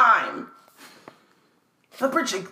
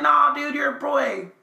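mock shout; 3 semitones higher than usual. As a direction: shout it as the doorknob. Voicing the doorknob.

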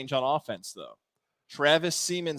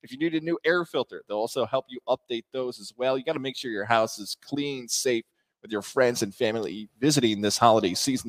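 sponsor read. Acted. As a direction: read the sponsor spot like a radio plug. Sponsor read with phone number.

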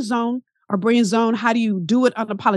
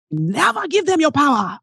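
put-on Caribbean accent; 5 semitones higher than usual. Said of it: "mess up her Caribbean accent".

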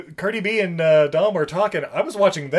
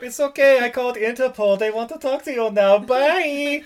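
German guy; 7 semitones higher than usual. Retold or imitated. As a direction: brush them off with glee. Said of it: "And the g-, German guy shows up".

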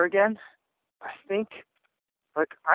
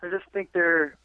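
burp breaking into the words; talking while burping; 3 semitones higher than usual. Real, not acted. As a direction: speak through a small burp. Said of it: "excuse me for that burp".

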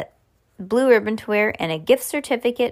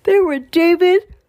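high, loud, astonished narration; big storybook gasp of a line; dramatic reveal; 8 semitones higher, 8 dB louder than usual. A narrator's reading. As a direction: burst into the reveal, pitched way up. First, heightened take of the reveal.

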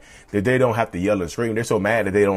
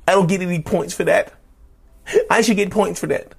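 higher and higher, whiny and self-righteous; a cheater demanding credit for confessing; mock indignant narcissist; 8 semitones higher than usual. Narcissist mocking a partner's anger, whiny and rising. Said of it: "They think because they tell you".

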